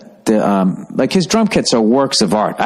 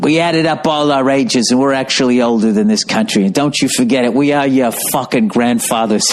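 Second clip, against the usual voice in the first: put-on a loose, half-hearted British accent with a slightly raised pitch; impression of a rock singer. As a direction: try a British rocker accent and give up on it. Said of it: "He did".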